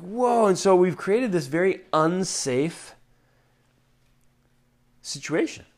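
ordinary talk

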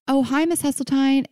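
high-pitched hello to a friend's mom; put-on phone greeting. Friend answering the mom's prank call, high put-on greeting.

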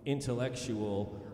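slow, drawn-out pompous brag. Pretend. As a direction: savor each word smugly. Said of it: "Like I'm better than everyone".

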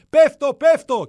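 a comic cry of despair from the balcony; yelling "I'm falling". Retold or imitated. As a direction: bellow «Πέφτω, πέφτω» from the balcony edge. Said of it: "να φωνάζω".

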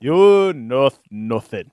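drawn-out, dramatic line; slow dramatic quote. Retold or imitated. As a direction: stretch it out like the show. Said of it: "Game of Thrones quote".

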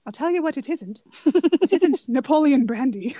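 lightly imitated dry British delivery; a hint of proper British. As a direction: quote it like a very proper Brit. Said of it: "that's how British he is".

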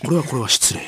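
軽部. Acted. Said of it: "軽部アナと遭遇する".

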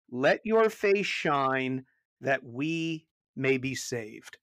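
slow, solemn reading of a psalm refrain; psalm recitation. Shown as a demonstration. Pastor reciting the psalm refrain, slow and solemn. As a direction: intone it like a prayer. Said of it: "It's the same words each time".

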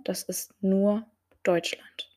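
NUR set apart by short pauses; emphasize the word "nur"; stress on NUR. Real, not acted. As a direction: land on NUR, pausing before Deutschland. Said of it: "Und ich betone".

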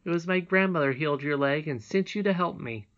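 high, eager princess calling out; excited child's call, loud at the start. A narrator's reading. Princess insisting to Curdie it was no dream, calling out. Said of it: "but Irene called out".

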